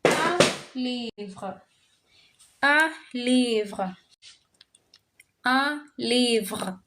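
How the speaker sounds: un nasal, livre with a throaty French R. Shown as a demonstration. Teacher repeating un livre for the class, throaty R. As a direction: drill un livre, rolling the R at the back. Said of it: "So we're gonna be using".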